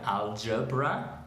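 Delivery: "algebra" slowly, syllable by syllable, G as in "gym"; English soft G. Shown as a demonstration. Teacher contrasting with Spanish álgebra, "algebra" slow, soft G. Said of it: "en inglés a veces esta es la Y".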